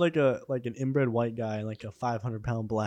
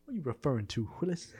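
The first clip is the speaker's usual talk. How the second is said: proper version; 2 semitones higher, 5 dB quieter, faster than usual. Pretend. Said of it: "slowly get more proper".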